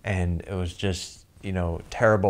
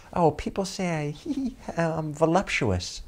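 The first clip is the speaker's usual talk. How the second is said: giggling; 8 semitones higher than usual. Retold or imitated. Woman giggles describing herself.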